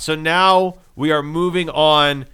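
measured segment-intro delivery, building to the guest's name; show announcer. Pretend.

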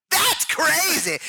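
high, drawn-out wrestler growl; hammed-up pro-wrestler catchphrase; Randy Savage. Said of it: "Randy Savage post-death".

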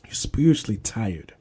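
hushed unvoiced whisper. Pastor whispering to weary listeners, an intimate whisper. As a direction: say it like a secret.

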